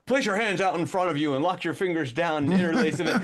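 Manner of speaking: blunt, obvious hypnotist order with a laugh in it; hammed-up command to lock the fingers. Shown as a demonstration. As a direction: overt hypnotist giving orders, half laughing. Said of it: "But I'm not gonna be like".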